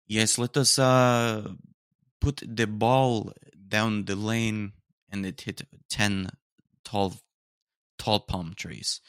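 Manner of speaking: put-on improvised, uncertain Russian accent. Vlogger mimicking ancient Egyptians painting pictures, in a makeshift Russian accent. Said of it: "I did a Russian accent".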